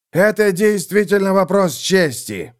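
exclaiming templar. Acted. Theobald answering the lords, exclaiming fervently. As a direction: exclaim it as a matter of honour. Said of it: "воскликнул Теобальд".

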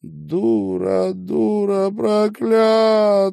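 high, slow wailing curse at herself; sobbing. Acted. Marina shaking with sobs, cursing herself high and slow. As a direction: wail it through sobs. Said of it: "тряслась от рыданий".

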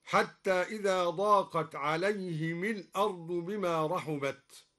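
عليهم linked with kasra, alayhimi al-ard; kasra on mim. Shown as a demonstration. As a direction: join عليهم to الأرض with a kasra. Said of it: "كسر الميم وصلا".

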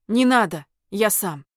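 loud, curt refusal; rough interruption. Acted. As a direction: cut her off sharply. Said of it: "довольно грубо перебил он Линду".

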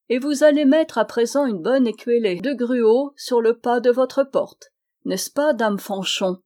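narquois. Acted. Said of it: "d'un air narquois".

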